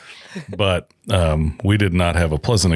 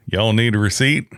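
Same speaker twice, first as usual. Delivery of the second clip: retold Southern clerk's question, pitched up; lightly put-on Southern accent; thick Southern accent; 4 semitones higher than usual. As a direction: imitate a Southern station attendant. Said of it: "got this real thick Southern accent".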